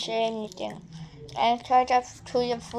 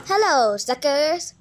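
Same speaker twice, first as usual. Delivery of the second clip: loud, gloating villain hello; villain greeting; 3 semitones higher, 5 dB louder, slower than usual. Acted. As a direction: taunt them like a cartoon villain. Villain arrives.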